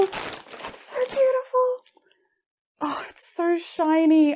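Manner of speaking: slow, whispered admiration; awed whisper. Real, not acted. Admiring the shiny spool, slow awed whisper. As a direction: breathe it out in wonder.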